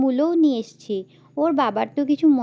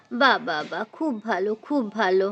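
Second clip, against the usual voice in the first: pleased mother-in-law; 3 semitones lower, 3 dB quieter than usual. Acted. Mother-in-law praises vegetables.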